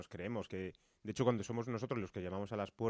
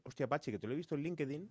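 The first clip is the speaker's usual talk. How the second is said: imitating a gushing, higher-pitched funder; mock excited call; 6 semitones higher, faster than usual. Funder calling Pachi after the hit, mock excited. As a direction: play up the sudden enthusiasm. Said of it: "sí que nos llamaron".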